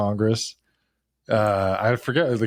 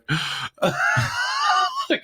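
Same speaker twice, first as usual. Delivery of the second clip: mock wail. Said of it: "And he's like".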